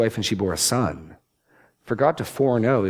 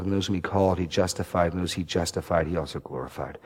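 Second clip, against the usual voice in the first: scripture reading; 2 semitones lower than usual. Acted. Preacher reading Romans to the congregation, measured and fading.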